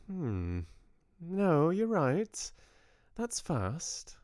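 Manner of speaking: a touch of Southern drawl, musing. Acted. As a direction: think it over aloud in a Southern drawl. Georgia thinking aloud.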